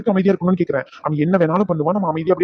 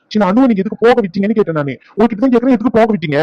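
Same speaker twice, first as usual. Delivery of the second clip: raised, accusing questioning; angry demand; 3 semitones higher, 3 dB louder than usual. Acted. Relative demands why they let Anu go, angry. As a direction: press hard for an answer.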